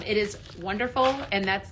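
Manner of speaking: ordinary talk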